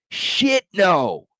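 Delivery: high mock disgust from the barista. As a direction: squeak it out like a scoffing barista. Barista mocks Aggies in story.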